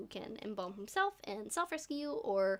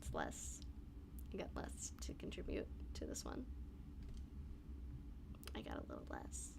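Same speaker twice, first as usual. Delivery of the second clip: worn-out voice; 11 dB quieter than usual. Real, not acted. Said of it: "I'm running on fumes alone".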